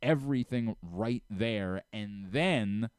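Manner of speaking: upbeat host reading a sponsor spot; host reading the sponsor ad for listeners, casual pitch; live ad read. Acted. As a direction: sell the deli easy and friendly.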